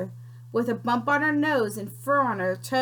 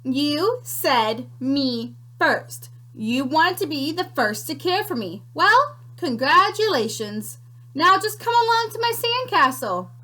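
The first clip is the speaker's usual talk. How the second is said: sly creature; 3 semitones higher than usual. Acted. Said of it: "the sandwich continued".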